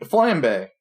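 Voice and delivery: flambe with a short 'a' as in 'ham'; unsure pronunciation. Shown as a demonstration. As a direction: draw out flambe, first syllable like 'flam' in 'flamingo'. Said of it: "Am I saying this right?".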